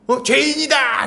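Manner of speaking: high, drawn-out mock cry of judgement; accusing shout. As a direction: imitate an outraged judge crying out a verdict. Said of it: "이렇게 막 소리를 지르는 거죠".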